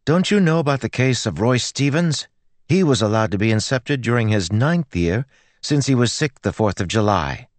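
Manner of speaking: put-on high, argumentative girl's voice; stubborn girl. Girl cites Roy Stevens's case to the priest, stubborn. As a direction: challenge him with a precedent.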